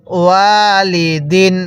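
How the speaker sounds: slow "ওয়ালিদিন" with a long held ওয়া; drawn-out vowel. Shown as a demonstration. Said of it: "আরেকবার পড়ুন".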